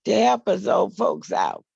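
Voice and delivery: hoarse morning voice, a bit rough. Real, not acted. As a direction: speak through a hoarse throat. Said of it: "excuse my voice, I, I have some hoarseness this morning".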